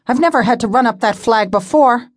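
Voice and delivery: put-on a nervous young helper; young assistant. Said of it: "Cable asked breathlessly".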